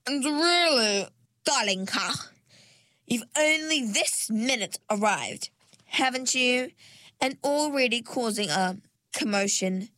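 high, sugary, condescending lady; syrupy mermaid voice. A narrator's reading. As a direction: coo it with false sweetness. Platita's syrupy voice.

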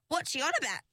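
lightly high, puzzled voice; puzzled mermaid. A narrator's reading. Chignon asking Ringlet about Perdita, puzzled and high. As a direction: wonder aloud, baffled. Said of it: "said Chignon".

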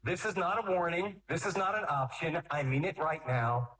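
firm, measured fatherly warning. Shown as a demonstration. Father warning a child who must obey, firm father voice. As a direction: lay it down as a final warning, deliberately. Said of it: "The deep voice that says to them".

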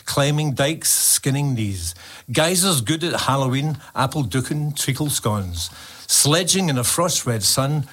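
slow poem recital in Glasgow accent. Shown as a demonstration. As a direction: recite it in rhythmic Glasgow Scots, taking your time. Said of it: "This is going to be in my Glasgow accent, so I'll try and go a little bit slow".

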